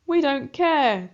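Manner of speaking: mock the rat cruelly; a hint of sneering villain cats; wicked cats mocking. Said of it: "the wicked cats answer".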